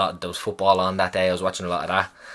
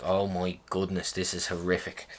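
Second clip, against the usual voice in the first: muted inner dread; 3 semitones lower, 10 dB quieter than usual. Retold or imitated. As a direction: retell a private thought under the breath. Retold inner dread on the bed.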